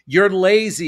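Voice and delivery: sharp, loud scolding parent; harsh put-down. Acted. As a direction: bark it like a cutting parent.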